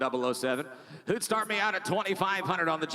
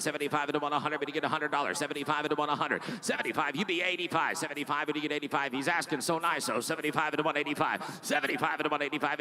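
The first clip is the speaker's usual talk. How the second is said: fast rhythmic auction chant; auctioneer; faster than usual. Real, not acted. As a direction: rattle off the bids like an auctioneer. Auction bid calling.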